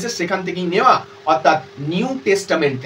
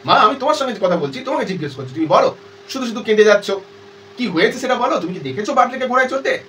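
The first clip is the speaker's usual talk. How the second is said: mildly angry; 3 semitones higher, faster than usual. Acted. Daughter scolding her mother for only crying, mildly angry. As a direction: demand an answer with a touch of anger. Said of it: "রেগে গিয়ে বলছে".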